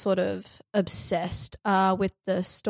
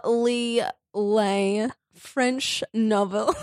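mock French; much slower than usual. Shown as a demonstration. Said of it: "I'm so sorry".

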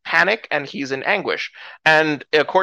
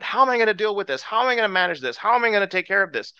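higher, rushed mock fretting; worked up; 6 semitones higher, much faster than usual. Believer facing a problem alone, worked up. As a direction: fret quickly through a pile of worries. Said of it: "we get so worked up".

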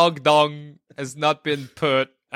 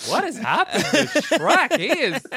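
Shrek voice; 9 semitones higher than usual. Pretend. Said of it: "Shrek voice again".

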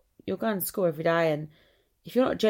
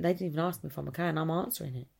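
embarrassed inner thought; 5 dB quieter, faster than usual. Retold or imitated. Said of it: "I walk away and I think".

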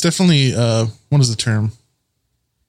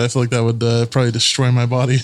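ordinary delivery

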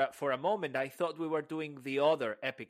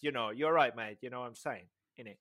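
light attempt at a Cockney accent; 3 semitones lower than usual. Shown as a demonstration. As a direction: try a hint of Cockney, loosely. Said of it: "your attempt to do Cockney".

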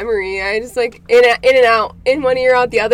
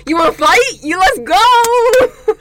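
mock fight challenge; 9 semitones higher, 9 dB louder, slower than usual. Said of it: "They're like".

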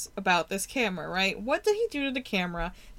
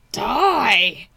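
demonic voice; 6 dB louder than usual. Retold or imitated. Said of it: "And the voice says".

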